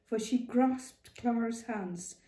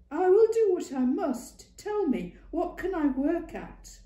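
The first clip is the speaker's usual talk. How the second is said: determined raised plea; 11 semitones higher, 8 dB louder than usual. A narrator's reading.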